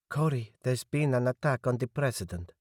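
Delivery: a hint of a worried woman breaking news; Eva on the phone. Eva telling Cory about the attack, lightly voiced and worried.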